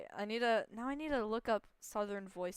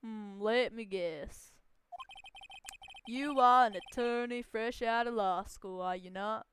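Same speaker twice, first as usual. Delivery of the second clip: a hint of a snobbish businessman, louder at the end; lightly voiced haughty tycoon; 7 dB louder than usual. CEO sneering at the lawyer's vocabulary, lightly haughty. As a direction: look down your nose, lightly.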